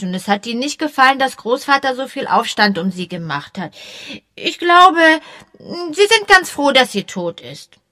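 high, eager schoolboy chatter; excited boy. A narrator's reading. Young boy chattering eagerly to the policemen. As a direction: babble on like an excited kid.

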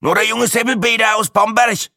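put-on high, creaking old Franconian voice; creaky Franconian. A narrator's reading. Old Franconian stating his supposedly famous name, creaky. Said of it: "knarzte er".

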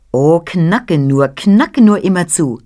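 lauter und höher, anfeuernd; lautes Anfeuern. Acted. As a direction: feuer den Nussknacker begeistert an. Kind feuert den Nussknacker an. (begeistert anfeuerndes Kind)

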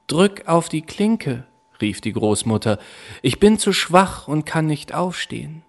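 lightly voiced sick granny; old grandmother. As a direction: sound too weak to get up. Grandmother answers from bed.

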